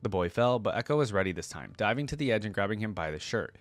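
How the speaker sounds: steady, even storytelling read; measured narrator voice reading the tale; story narration. Acted. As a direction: read the lore like an audiobook. Reads lore story aloud.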